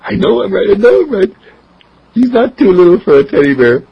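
dad insisting to his wife; triumphant father. Acted. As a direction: crow like a proud father. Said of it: "And Dad says".

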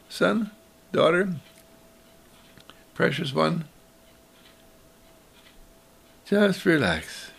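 cradle each word softly; tender mother. Acted.

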